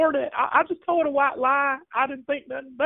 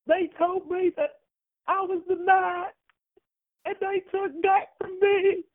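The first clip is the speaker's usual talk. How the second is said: mock crying; 5 semitones higher than usual. Caller wails over losing Dak.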